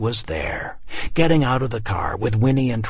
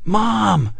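high loud cry; boy's shout; 10 semitones higher, 4 dB louder than usual. A narrator's reading. Boy shouting for his mother, high cry. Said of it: "Trevor shouted".

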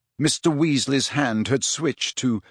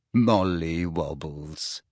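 low, slow embarrassed whisper; mortified whisper; 8 semitones lower, 5 dB quieter, much slower than usual. A narrator's reading. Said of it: "whispered a mortified Missus Weasley".

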